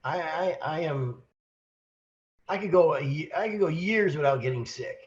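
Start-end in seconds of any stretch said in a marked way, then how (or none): none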